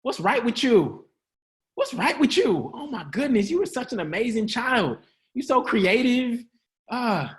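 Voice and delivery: lightly hammed-up proud parent; encouraging parent. Shown as a demonstration. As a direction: gush over your kid. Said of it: "try this next time".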